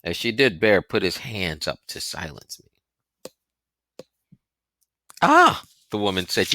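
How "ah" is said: high widow's exclamation. A narrator's reading.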